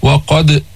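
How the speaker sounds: وقد with a bouncing, echoed د; crisp rebound on the last sound of وقد; qalqalah. Shown as a demonstration. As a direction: release the final د of وقد with a small bounce. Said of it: "جيب القلقلة".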